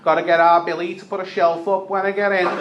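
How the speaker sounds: lightly voiced nan musing about a shelf. Nan glances at the injured man and muses, lightly voiced. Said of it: "she goes".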